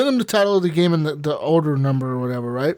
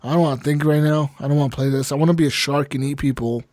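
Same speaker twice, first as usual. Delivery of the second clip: retold reluctance; 4 semitones lower than usual. Acting out his reluctance to play.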